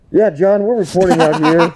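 a hint of a TV reporter on the scene; field reporter. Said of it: "on the scene".

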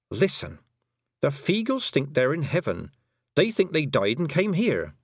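insistent explaining, lightly voiced heroine; Tiffany, earnest young heroine. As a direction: press the point to the toad.

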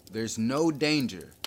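loud, slow reassurance to a crowd; shouted. A narrator's reading. Inspector calming a panicked hall, shouting. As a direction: call it out slowly over the noise. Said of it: "he shouted".

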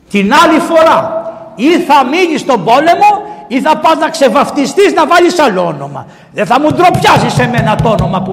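high, loud furious rebuke from a king; scolding shout. Retold or imitated. Alexander the Great berating the soldier named Alexander, loud angry shout. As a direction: bark it at the soldier like an enraged king.

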